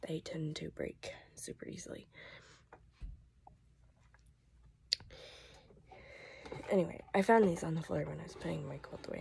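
hoarse whisper; voice giving out. Real, not acted. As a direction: voice nearly shot. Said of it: "my voice is about shot".

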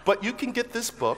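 laughing. Real, not acted. Laughing while plugging his book.

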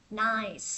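"Nice" with a hissed S ending; final S sound. Shown as a demonstration. Teacher pointing out the S ending of "Nice". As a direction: finish "Nice" on a clear S. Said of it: "Sờ vô".

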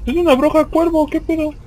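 high, amazed exclamation; blurting it out in disbelief; surprised. Real, not acted. Discovers a crow witch in game.

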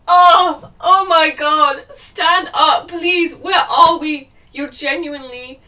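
loud, high, slow, laughing; laughing exasperated outcry. Real, not acted. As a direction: cry it out, incredulous. Outrage at the plot.

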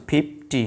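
ফিফটি broken as "phiph - ti"; ফিফটি sounded out, phiph, then ti; split into two sounds. Shown as a demonstration. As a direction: separate the two syllables of ফিফটি. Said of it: "এখানে কিন্তু দুটো sound আছে".

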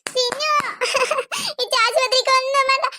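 tearful calling out; noisy pleading. Acted. Child begging to get into the bathroom, noisy pleading. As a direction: clamour to be let in, with sobs. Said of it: "അവിടെ നിന്നിട്ട് ഇങ്ങനെ ഒച്ച വെക്കല്ലേ".

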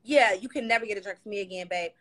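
high-pitched mock hustle; playful bartender refusing non-tippers; imitating sassy bartender. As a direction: lay down the bar rules, high and cheeky. Acting out her old bartender self.

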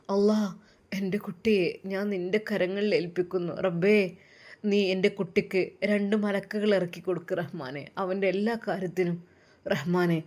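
sobbing prayer. Acted. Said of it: "ഉമ്മ വിതുമ്പിക്കൊണ്ട്".

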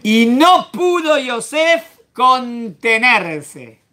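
very slow, weighty reading of the verse; dramatic slow reading. Acted. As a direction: draw out every word for drama. (lectura lenta y solemne)

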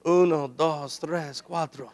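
low, soft count in Spanish; hushed comic counting, pitched well down; mock calming count. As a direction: count under your breath to cool off. Acts out counting to cool off.

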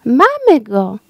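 a page exclaiming in triumph; excited exclamation. A narrator's reading. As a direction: call it out, sure you found it. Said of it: "wykrzyknął paź dworski".

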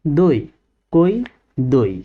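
"দই, কই দই" as separate syllables, each gliding o to i; pronunciation demonstration. Shown as a demonstration. Teacher drilling oi-kar sounds, "দই, কই দই" said distinctly. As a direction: model "দই, কই দই" one by one, doi, koi, doi. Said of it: "তাহলে কি উচ্চারণ হবে?".

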